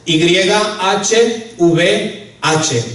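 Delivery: Y H V H, each letter named slowly with pauses; slow spelled-out letters. Shown as a demonstration. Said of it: "esas cuatro letras".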